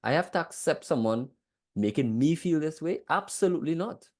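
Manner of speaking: acted-out protest, pitch climbing; indignant disbelief. Speaker replaying their first reaction to acceptance, indignant protest. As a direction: push back in mock outraged disbelief. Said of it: "I started to feel like".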